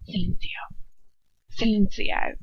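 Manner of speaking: hushed spell muttered twice. Acted. Doloff silencing Ron, muttered spell. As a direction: mutter the spell under the breath. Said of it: "Doloff mutters".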